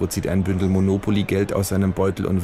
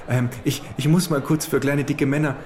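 high falsetto of a small fat lobbyist; 8 semitones higher than usual. Acted. Lobbyist lecturing the kangaroo at the buffet, high falsetto. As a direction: squeak it out like a nervous little fat man. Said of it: "mit Fistelstimme".

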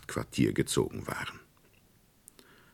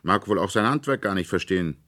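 put-on scornful boy; 6 semitones higher, 5 dB louder than usual. A narrator's reading. Fritz scolds the nutcracker.

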